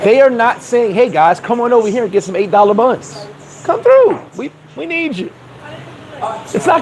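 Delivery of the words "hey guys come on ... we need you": sing-song come-on to tourists; pitched-up mock sales pitch; mock welcoming local. Mocking Venezuelans inviting tourists.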